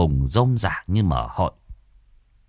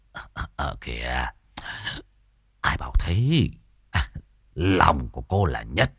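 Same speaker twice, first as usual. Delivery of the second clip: low, soft, nervous man's voice; hastily change the subject, flustered; flustered deflection; 7 semitones lower, 4 dB quieter than usual. Acted. Tam nervously dodging Hòa's jealousy. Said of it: "vội vàng đánh trống lại".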